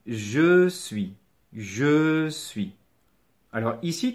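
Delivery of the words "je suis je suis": "Je suis" slow, each word held long; slow model pronunciation. Shown as a demonstration. Teacher modelling the conjugation for a learner, slow demonstration. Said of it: "on va tout de suite commencer la conjugaison".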